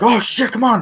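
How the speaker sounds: very high, loud cartoonish yelp; hammed-up high-pitched villain panic; mock bad guy panic. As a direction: squeak out the villain's alarm. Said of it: "so the bad guy's like".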